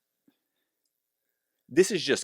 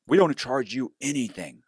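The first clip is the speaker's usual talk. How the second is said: slightly higher, assured sales claim; lightly voiced broker pitch; 4 semitones higher than usual. Broker selling a loan to a client, lightly assured. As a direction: imitate a broker reassuring a client. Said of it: "a lot of people will say".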